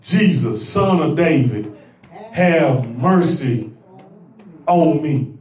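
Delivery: a drawn-out, low cry to Jesus; crying out for mercy. Retold or imitated. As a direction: blind beggar calling out, low and slow. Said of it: "he began to cry out and say".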